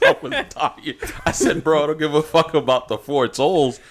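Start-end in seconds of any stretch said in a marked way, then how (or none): 1.6-3.8 exasperated rant. Retold or imitated. Building incredulous rant to dad.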